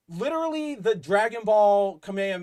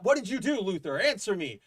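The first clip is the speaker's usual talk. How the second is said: mock freaked-out Superman; 3 semitones higher than usual. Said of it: "Superman freaks out".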